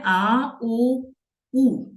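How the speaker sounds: आ, ओ, ऊ as separate pure long vowels; plain vowel sounds. Shown as a demonstration. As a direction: demonstrate आ, ओ, ऊ one by one. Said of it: "अब हम इनकी already sound सीख चुके हैं". (आ, ओ, ऊ अलग-अलग शुद्ध स्वर में)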